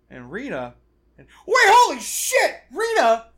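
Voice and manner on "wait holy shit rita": high, loud startled outburst; startled shout. Acted. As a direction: blurt it out in shock. Phil's startled reaction acted out.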